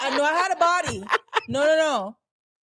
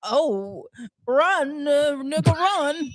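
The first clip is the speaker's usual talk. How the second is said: lightly voiced cartoon dog; tentative dog-voice warning; Scooby-Doo; much slower than usual. Co-host trying a cartoon dog, light impression. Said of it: "Scooby-Doo".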